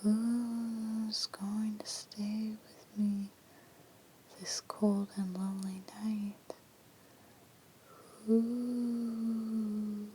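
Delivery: slow whispered spectral moan; eerie ghost voice. Acted. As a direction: drag it out like a lonely ghost. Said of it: "it was saying".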